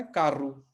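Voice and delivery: कारू with the final o said as ऊ; Portuguese carro. Shown as a demonstration. Teacher models the final ऊ in कारू, slowly. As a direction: say कारू ending in a clear ऊ. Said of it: "शब्द के अंत में ओ आएगा तो वो ऊ बन जाएगा".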